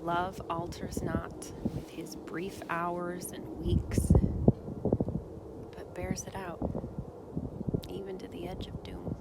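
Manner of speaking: put-on Shakespeare sonnet read in a lightly Minnesotan accent; a hint of Minnesota in a dramatic reading. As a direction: recite the sonnet like a folksy Minnesotan. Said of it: "Sonnet one sixteen from a Minnesotan".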